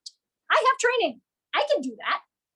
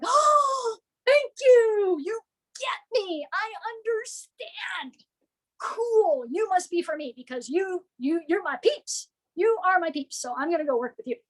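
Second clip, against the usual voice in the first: grateful customer; 5 semitones higher than usual. Retold or imitated. Grateful customer voiced by speaker.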